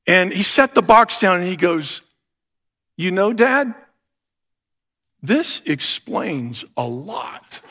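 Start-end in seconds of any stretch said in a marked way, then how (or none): 3.0-7.6 dry deadpan quip. Retold or imitated. Son's dry punchline.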